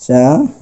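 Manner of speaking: চালিত broken up as "cha... li-to"; syllable-by-syllable demo. Shown as a demonstration. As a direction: sound out চালিত in parts, ending on o. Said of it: "আমাদের বলতে হবে চালিত". (চালিত ভেঙে ভেঙে, শেষে ও-কার)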